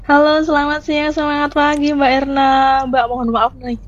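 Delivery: speaking through a real hoarse throat. Real, not acted. Radio guest apologizes to the host for her voice, hoarse. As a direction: push the words out past a sore, raspy throat. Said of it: "kalau suara saya sedang serak ya".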